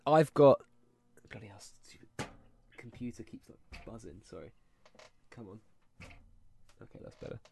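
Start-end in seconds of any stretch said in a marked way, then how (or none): 1.3-7.4 quiet grumbling at computer; muttering under breath. Real, not acted. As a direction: mutter it to yourself.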